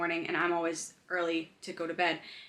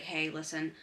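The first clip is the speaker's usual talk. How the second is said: retold teary plea; 3 semitones lower, 5 dB quieter than usual. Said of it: "I was tearing up".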